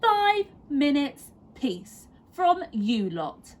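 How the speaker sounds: high then slowing, drawn-out plea for peace; weary mum. A narrator's reading. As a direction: stretch it out like a fed-up mother. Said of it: "said Missus Large".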